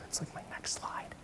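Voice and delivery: unvoiced whisper to the audience; whispered aside. Real, not acted. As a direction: slip it in as a secret.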